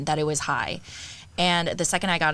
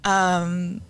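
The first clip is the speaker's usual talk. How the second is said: caught-out stammer; much slower than usual. Retold or imitated. Caught out, stalling for an answer.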